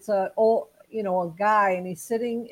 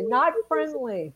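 milder, slow, raised-pitch call; mock yelling; 4 semitones higher than usual. Shown as a demonstration. Walking the dog and warding people off, mildly mock yelling. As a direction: draw it out as a playful warning. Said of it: "I'm just gonna say".

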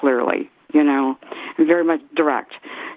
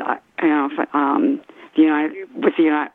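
hoarse, fading voice; losing her voice. Real, not acted. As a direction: voice going hoarse. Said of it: "I'm losing my voice here".

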